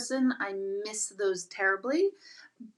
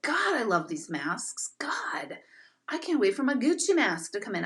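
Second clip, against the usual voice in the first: sarcastic imagined mask fan, partly whispered; mock enthusiasm. Streamer voicing a mask lover nobody has met, mock gushing. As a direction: gush in mockery, dropping to a breath. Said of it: "I don't think anyone's like".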